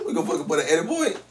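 words pushed out through real laughter; cracking up while asking a question; laughing. Real, not acted. Host laughing at his cohost, asking about editing. Laughing over a story's start.

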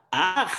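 short mimicked "aj"; imitated cry of alarm; mock wife's scream. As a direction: echo her startled yelp. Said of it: "mi esposa grita".

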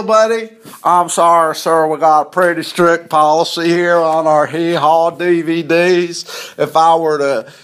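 lightly voiced call center rep; mock phone operator. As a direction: playfully put on a stiff sales agent.

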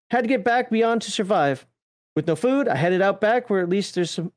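lightly put-on Australian storyteller; mild mock-Aussie lilt; Australian accent. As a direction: read it out in a half-hearted Australian accent. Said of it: "I hate speaking Australian".

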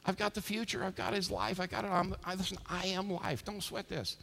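softly spoken, easy confidence; calm reassurance. Acted. Jesus calming the upset mourners, quiet reassurance. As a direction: soothe them quietly, totally unbothered. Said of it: "Jesus is like".

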